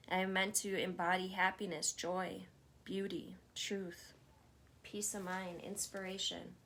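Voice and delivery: calm, steady self-affirmations; guided affirmation read. Acted. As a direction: speak each line as a settled truth. Leads spoken affirmations.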